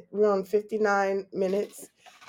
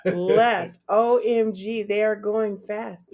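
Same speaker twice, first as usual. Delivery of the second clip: salesy hype; 3 semitones higher, 8 dB louder, much slower than usual. Acted. Hyping limited giveaway stock.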